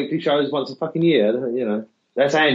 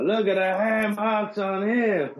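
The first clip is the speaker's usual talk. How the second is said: high, slow, put-on wrestler growl; Roddy Piper impression; 9 semitones higher, slower than usual. Podcast host quoting Roddy Piper to his co-host, high and slow. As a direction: ham up Roddy Piper mocking the beaten guy. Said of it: "And Roddy Piper".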